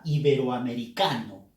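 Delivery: "iberoamericano" as one word, weight on ca; stress on CA. Shown as a demonstration. Teacher showing the fused word, "iberoamericano" stressed on ca. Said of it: "Fuerza de voz en K".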